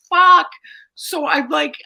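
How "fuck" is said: frustrated curse. Retold or imitated. Retold frustration.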